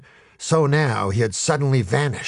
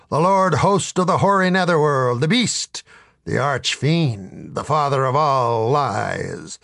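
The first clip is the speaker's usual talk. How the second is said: grandiose devil; 4 semitones higher than usual. Acted. Devil announcing himself to a drunk at the bar, booming and grand. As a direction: proclaim every name like a dark title. The devil lists his names.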